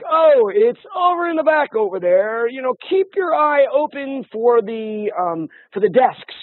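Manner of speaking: mimicked clerk, high and slow; imitating a store worker giving lazy directions; unhelpful store clerk. Mimicking unhelpful Walmart staff.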